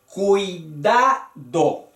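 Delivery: CUIDADO in three slow beats, cui-da-do; "cuidado" slowly divided, "cui" kept as one syllable. Shown as a demonstration. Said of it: "Tres sílabas. Cuidado".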